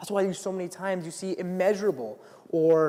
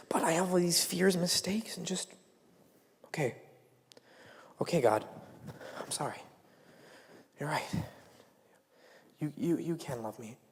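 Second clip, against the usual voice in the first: humble prayer; 6 dB quieter than usual. Retold or imitated. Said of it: "We have to just say".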